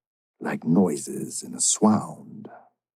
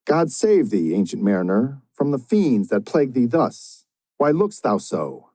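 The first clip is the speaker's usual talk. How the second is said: alarmed cry; 5 semitones higher than usual. Acted. Guest's alarmed cry to mariner.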